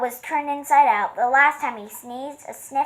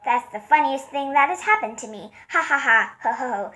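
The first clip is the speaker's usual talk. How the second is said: gently voiced giggling elephant; spoken giggle; 3 semitones higher than usual. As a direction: lightly read hee hee ha ha. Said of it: "He began to giggle".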